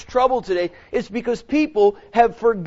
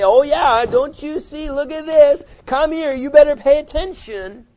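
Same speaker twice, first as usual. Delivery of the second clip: finger-pointing; 5 semitones higher, 5 dB louder than usual. Retold or imitated. Preacher mocks finger-pointing churchgoers.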